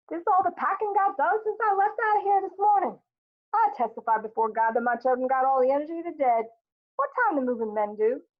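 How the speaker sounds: high-pitched, exclaiming matriarch; lively Mama. Acted. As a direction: come in as Mama, declaiming high over everyone. Voices Mama coming home.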